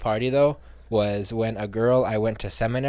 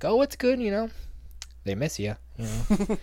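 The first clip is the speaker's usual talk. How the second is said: much higher, breezy pious; higher mock-sweet church talk; smug mock reply; 9 semitones higher than usual. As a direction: rub it in cheerfully.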